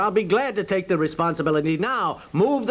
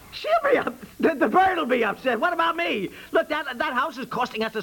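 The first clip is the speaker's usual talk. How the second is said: incredulous outrage; 7 semitones higher than usual. Acted. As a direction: pitch shoots way up in disbelief. Husband outraged at bird fuss.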